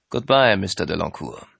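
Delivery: put-on French accent. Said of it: "einen französischen Akzent zu imitieren".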